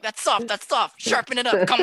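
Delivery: high, pressing hushed commands; urgent director. Retold or imitated. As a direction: coach the focus puller under breath.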